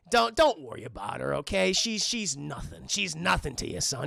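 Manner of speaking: a hint of a cold rich father.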